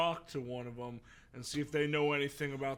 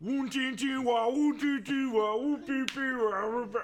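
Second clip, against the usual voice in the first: loud, high alien gibberish chant; Enderman speak; 12 semitones higher, 9 dB louder than usual. Shown as a demonstration. Demonstrating an Enderman language, loud high creature babble. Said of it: "mine was gonna be".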